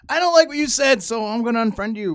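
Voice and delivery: mock the sulky unfriender; mocking petulant voice. Mocking petulant social media user.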